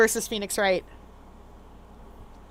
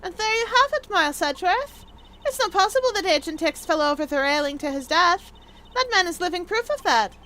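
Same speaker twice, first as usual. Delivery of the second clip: higher-pitched character voice; triumphant rebuttal; 6 semitones higher than usual. Acted. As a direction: make the point with theatrical confidence.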